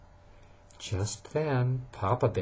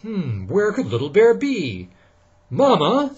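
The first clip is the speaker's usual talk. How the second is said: calling Mama; 8 semitones higher, 7 dB louder than usual. Acted. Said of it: "said Papa Bear".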